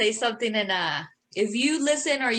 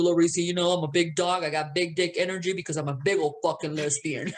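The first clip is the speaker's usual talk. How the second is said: laughing, lower mock tough-girl brag; mock swagger; 5 semitones lower than usual. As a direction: boast like a big dog through laughter. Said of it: "I would have been over here telling you".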